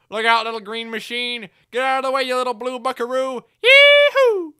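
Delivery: high, hollered warning ending in a whoop; whooping cowboy engine. Acted. Runaway engine warning the little engines, cowboy holler. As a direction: holler like a rodeo rider.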